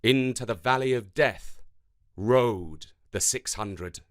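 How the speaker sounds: rhythmic, dramatic poem reading; galloping poem recital. Acted. Teacher reading a war poem to the class, rhythmic recital. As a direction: ride the galloping beat of the verse. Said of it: "Listen out for the galloping rhythm".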